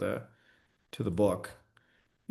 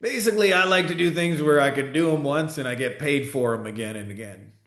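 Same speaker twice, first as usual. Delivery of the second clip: put-on thick Southern accent; 4 semitones higher than usual. Mentor explains to his protégé how he earns, thick Southern accent. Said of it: "in his thick Southern accent".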